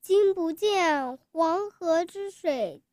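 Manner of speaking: grand classical poem recital, rising and falling; chinese poetry recitation. Acted. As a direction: declaim it boldly, stretching the last line. Child recites Li Bai poem.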